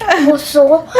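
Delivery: "Croissant" lightly mocked as "kuso", the r and final n dropped; mom's way of saying croissant. Daughter mimics mom's "Croissant", said as "kuso". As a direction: say "Croissant" the way mom does, as "kuso", teasing. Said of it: "That's how she says croissant".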